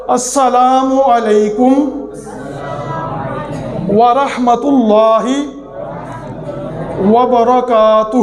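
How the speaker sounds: "السلام علیکم" "ورحمت اللہ" "وبرکاتہ" slow, with long pauses; slow careful recitation. Shown as a demonstration. Teacher reciting the full salam slowly for viewers to repeat. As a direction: say each phrase slowly and let it rest. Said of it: "ورحمت اللہ پڑھیں".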